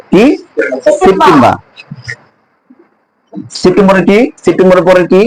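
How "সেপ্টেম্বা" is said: r-less সেপ্টেম্বর, "sep-tem-baa"; British pronunciation. Shown as a demonstration. Teacher repeating their way, British pronunciation. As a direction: end সেপ্টেম্বর on an open "baa". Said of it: "ব্রিটিশরা বলে".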